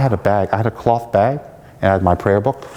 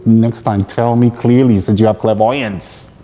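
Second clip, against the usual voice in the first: exasperated, emphatic mock scolding; irritated retort, pressing each word; angry inner voice; slower than usual. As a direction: tell the teacher off in your head. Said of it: "all my evil anger mind".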